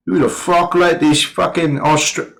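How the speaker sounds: half-hearted British officer; attempted British accent. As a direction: try a British accent, not quite landing it. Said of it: "I can't do a British accent".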